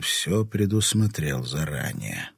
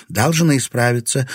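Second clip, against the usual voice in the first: firm and sure, a bit raised; 6 semitones higher, 5 dB louder than usual. Acted. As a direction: say it with steady resolve. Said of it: "твёрдо заявила Настя".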